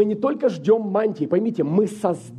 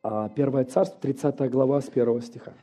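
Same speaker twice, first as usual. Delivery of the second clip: hoarse, tired voice giving out; strained hoarse reading voice; gravelly voice; 4 semitones lower, 3 dB quieter than usual. Real, not acted. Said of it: "Прошу прощения за мой голос, он уже сдаёт".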